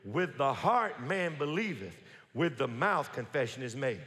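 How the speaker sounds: "With the heart man believeth" said slowly, leaning on "heart" and "mouth"; slow recital. Shown as a demonstration. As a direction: recite it slowly so they can join. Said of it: "say it with me".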